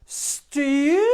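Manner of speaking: loud shouted defiance; defiant shout. Acted. Princess defying the fairy's threat with a loud shout. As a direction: yell it right at her.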